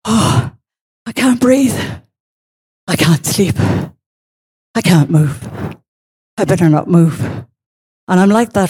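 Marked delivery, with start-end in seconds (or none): 0.1-7.2 halting, frozen little phrases; retold, understated panic under the covers; too afraid to move. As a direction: act out being rigid with fear, pausing between phrases. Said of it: "I'm too afraid to move".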